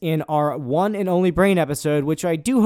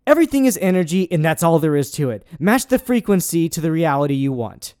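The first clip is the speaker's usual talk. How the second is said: faster reread; 3 dB louder than usual. Shown as a demonstration. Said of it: "read that one again just so you can interpret".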